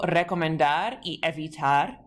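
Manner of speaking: recomendar y evitar, with DAR and TAR stressed; stress on last syllable. Shown as a demonstration. Teacher gives infinitive examples, stress on the endings of recomendar and evitar. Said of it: "spoken accent on the last syllable".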